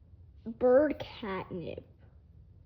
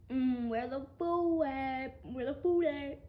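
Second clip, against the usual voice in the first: slow, odd voice for the hungry bird. Pretend. Owner voicing her bird, slow and odd, searching for food. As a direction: drawl out the bird hunting snacks. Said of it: "He's like".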